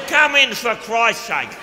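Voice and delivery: mock booming welcome; hearty welcome. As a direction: bellow a friendly invitation. Mel's loud welcome.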